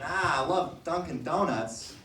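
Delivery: imitating Boston locals in a Boston accent; drawn-out Boston accent, lingering on each word. Comic quoting what everyone outside was saying, in a Boston accent. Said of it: "all of the people were saying".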